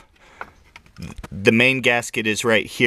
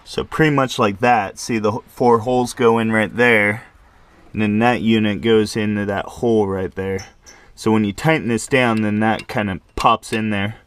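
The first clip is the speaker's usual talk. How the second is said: talking around a flashlight in his mouth; words muffled by something held in the teeth. Real, not acted. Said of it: "Let me hold the flashlight in my mouth".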